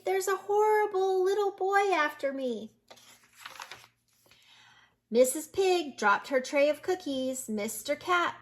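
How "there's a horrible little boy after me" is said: higher pitched fake panic; yelled. A narrator's reading. Wolf fooling the shopkeepers again, high mock panic. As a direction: cry wolf a second time. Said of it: "yelled as loud as he could".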